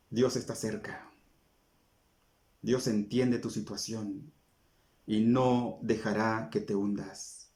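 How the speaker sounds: soft, slow reassurance to the listener; tender comfort. Acted. Preacher comforting a struggling believer, soft and slow. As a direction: lay each word down gently, like a hand on the shoulder.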